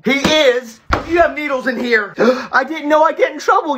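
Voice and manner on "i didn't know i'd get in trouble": tearful, higher plea; crying. Acted. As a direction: cry out the excuse. Kid caught with needles, starts crying.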